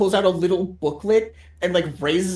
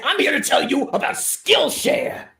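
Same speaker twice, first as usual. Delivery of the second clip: mock sponsor read; 8 semitones higher than usual. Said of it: "the fucking".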